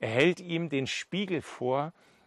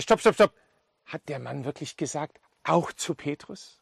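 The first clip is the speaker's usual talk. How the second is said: abrupt excited halt, then wondering question; interrupt, then ask in hopeful disbelief; astonished hope. Acted. Peter interrupts the women's report, astonished and newly hopeful. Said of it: "Wie so ein erster Hoffnungsschimmer".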